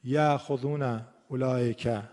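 اولئک with the hamza softened and slurred; slack hamza demo. Shown as a demonstration. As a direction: read اولئک the wrong way, hamza eased. (همزهٔ شل در اولئک)

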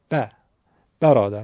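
ب as short front 'ba', then برادر; short front fatha. Shown as a demonstration. Teacher showing horizontal mouth opening, short 'a' starting برادر. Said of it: "با صدای ا میگه".

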